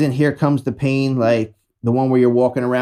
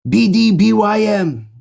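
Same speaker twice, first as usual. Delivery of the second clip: excited hashtag; 8 semitones higher, 3 dB louder than usual. Retold or imitated. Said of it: "I did the hashtag".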